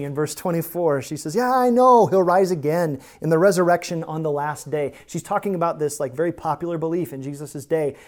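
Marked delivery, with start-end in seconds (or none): 1.4-4.9 louder, dutiful "yeah, I know"; mildly impatient, dutiful reply; dutiful recital. Acted. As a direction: recite it like a known doctrine. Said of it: "ever dutiful, runs to her theology".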